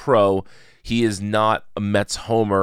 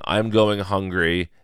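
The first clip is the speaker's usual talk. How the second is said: understated stoic delivery, slowly; slower than usual. Retold or imitated. Voicing stoic Ron in the hungry meme, stoic. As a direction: say it stolidly, drawn out a little. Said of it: "looking very sort of stoic".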